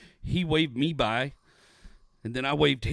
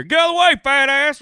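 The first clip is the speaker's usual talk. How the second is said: louder, higher rude shout; mock yell; 9 semitones higher, 9 dB louder than usual. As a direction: bark it like an angry local. Imagined rude yell at him.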